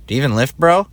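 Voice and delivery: mocking gym bro taunt, rising high on bro. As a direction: tease like a meathead at the gym. Heckling himself on video.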